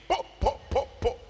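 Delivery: short, separate popping sounds; imitated slaps. Preacher imitating midwife hitting the newborn, quick slap noises. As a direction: pop out the sound of little smacks. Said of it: "the midwife will hit the baby".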